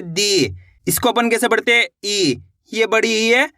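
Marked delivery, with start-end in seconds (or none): 0.0-0.5 दी with ई pulled long; drawn-out dee. Shown as a demonstration. Teacher showing the long ई, stretched. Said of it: "इसी तरीके से खींच के करना है". 2.0-2.4 ई held long and even. Shown as a demonstration. Teacher showing how to read the long ई, drawn out. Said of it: "खींच के पढ़ते हैं".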